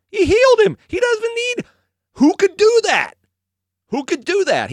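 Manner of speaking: very high, impassioned exclamation; amazed. Real, not acted. Preacher marvels that Jesus healed the blind man, amazed. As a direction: marvel at it with rising fervor.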